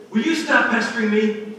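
loud, high exasperated outburst; mock annoyed yell. Preacher showing God never snapping at those who ask, loud mock exasperation. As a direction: throw it out like an irritated parent. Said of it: "God doesn't say".

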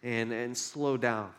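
mock relaxed sigh.

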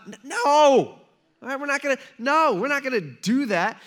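high, loud, laughing no; a half-laughing shout of refusal; mock yell. Jesus yelling at his disciples, high laughing mock yell. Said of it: "he yells at them".

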